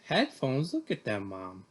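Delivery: indignant outburst at mom, mildly acted; angry. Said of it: "I said angrily".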